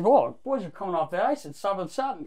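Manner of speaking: mock nonsense sliding into mumbles; double-talk. Pranking the hyper attendant, half-mumbled double-talk. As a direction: garble the key words as if sensible. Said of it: "I just talk really stupid".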